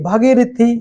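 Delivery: भगीरथी with a short first a; wrong pronunciation. Shown as a demonstration. Teacher showing students the faulty word, mispronounced with short 'bha'. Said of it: "भगीरथी नहीं शब्द होता है".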